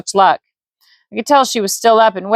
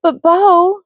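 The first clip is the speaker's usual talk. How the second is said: woman's voice; 11 semitones higher, 3 dB louder than usual. Acted. Vivian pleading.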